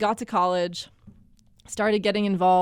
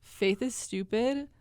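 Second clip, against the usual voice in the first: smug; 4 dB louder, slower than usual. Retold or imitated. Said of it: "air quotes around smart girl".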